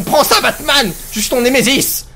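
a hint of a gloating cartoon villain; mock villain. Player taunting the trapped figure as a mock villain. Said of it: "Je me sens fier comme le Joker".

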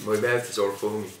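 joking touch of Irish accent; accidental Irish accent. Real, not acted. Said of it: "I've got an Irish accent now".

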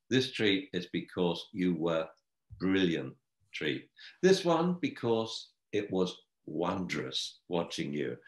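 soft, slowed, gently appreciative; a quiet adjective-rich compliment; mild warm praise. Shown as a demonstration. Trainer praising a puppy with real words, soft and warm. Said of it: "and you say".

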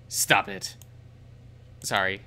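sharp hushed whisper. Acted. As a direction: whisper it, scolding. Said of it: "Vita quietly smacks my hand away".

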